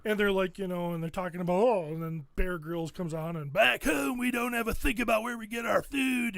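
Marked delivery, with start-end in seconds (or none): 3.5-6.4 mock a posh English TV host badly; bad English accent. Mocking Bear Grylls on the show, in a bad English accent. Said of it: "That was a bad accent".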